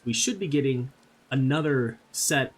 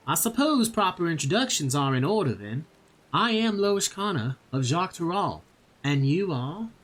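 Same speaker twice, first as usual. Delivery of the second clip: put-on a light southern accent, slightly higher; 4 semitones higher than usual. Streamer voicing Loish Kana, light southern accent. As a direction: lean into a gentle southern accent. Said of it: "I will do my best to do a southern accent".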